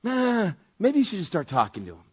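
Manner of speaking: lightly voiced nagging conscience; little inner nudge. Inner voice nudging him toward a stranger, small nagging nudge. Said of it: "little thing on your heart that says".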